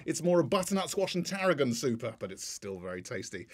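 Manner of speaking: mock-formal monologue delivery; formal podcast voice. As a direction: read out a scripted gag, trailing away softly. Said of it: "opening gags in a slightly more formal voice".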